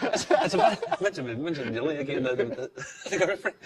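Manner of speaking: laughing. Real, not acted. Laughing while teasing about accent.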